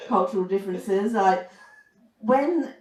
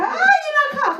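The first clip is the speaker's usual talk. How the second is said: much higher, louder mock gushing; impressed coworker; 6 dB louder than usual. Strip club coworkers amazed she knows Cork, squealing high. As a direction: gush like a wide-eyed dancer. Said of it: "and they go".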